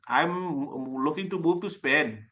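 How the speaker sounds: slow, heavy South Asian accent. Shown as a demonstration. Coach contrasting himself with a native speaker, slow Asian accent. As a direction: put on a thick Asian accent, drawn out. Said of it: "with my Asian accent".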